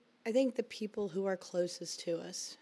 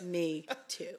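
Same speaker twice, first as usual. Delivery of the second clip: husky, worn-out voice still raspy from the flu; raspy voice after flu; 4 dB quieter than usual. Real, not acted. Wife on their podcast, speaking in her raspy post-flu voice. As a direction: let the leftover flu rasp show. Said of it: "she's still dealing with a little bit of raspiness".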